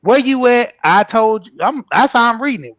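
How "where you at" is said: aggressive text read. Retold or imitated. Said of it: "So I'm reading it aggressive".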